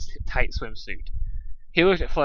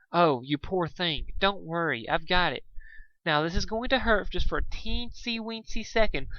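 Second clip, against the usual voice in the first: gentle Fluttershy; 6 semitones higher than usual. Acted. Fluttershy soothing the Manticore.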